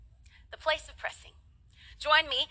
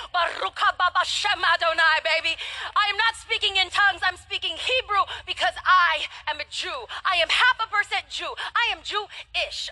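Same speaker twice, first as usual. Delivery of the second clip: excited proclamation. Retold or imitated. Wife shouting to husband at carousel, excited. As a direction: proclaim it triumphantly. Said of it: "and I said".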